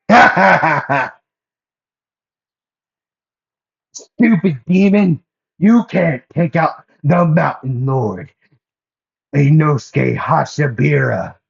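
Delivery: loud, high battle boast with a big laugh; Inosuke. Acted. Inosuke taunting a demon atop the rubble, boastful shouting. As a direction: crow at the enemy in a loud, high character voice. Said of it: "and then Inosuke would say".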